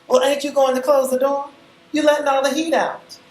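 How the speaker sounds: put-on high, loud bossy older woman; Miss B. A narrator's reading. Visitor scolding the host for the open door, high and loud.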